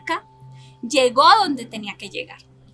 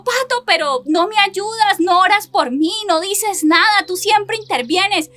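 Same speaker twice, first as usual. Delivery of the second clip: mock reproach, higher and louder; husband's complaint; 5 semitones higher, 4 dB louder than usual. Husband scolding his wife for not helping, hammed-up reproach. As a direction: voice her husband's frustrated outburst. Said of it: "un día me dijo".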